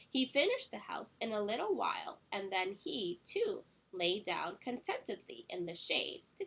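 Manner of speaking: lively storybook narration with wide pitch swings; read-aloud storytelling. A narrator's reading. Teacher reading The Three Little Pigs to children, animated storytelling. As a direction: read to young children, stretching key words.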